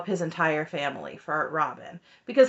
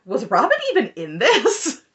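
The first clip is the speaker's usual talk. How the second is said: laughing; 4 semitones higher, 5 dB louder than usual. Retold or imitated. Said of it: "I said in a short".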